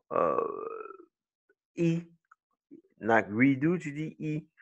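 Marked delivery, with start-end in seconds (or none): 4.2-4.5 "i" as a long EE sound; long vowel. Shown as a demonstration. Teacher naming the vowel in redo, long sound. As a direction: hold a clear EE for "i". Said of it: "Le son long".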